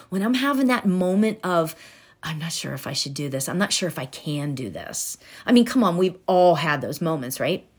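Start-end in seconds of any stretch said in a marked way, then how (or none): 2.2-5.2 imitating self-doubt. Voicing her own self-doubt.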